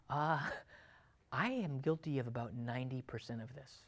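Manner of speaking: low, very soft admission; guilty inner thought. Acted. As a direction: confess it quietly to yourself. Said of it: "there's a big gulp, and you go".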